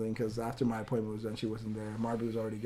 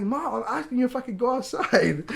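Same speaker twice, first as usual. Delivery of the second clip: put-on high, loud kid yelling at mom; mock a child's exasperated demand down the phone; imitated daughter's protest; 12 semitones higher, 6 dB louder than usual. Daughter calls mom back to beg to go outside, loud protest.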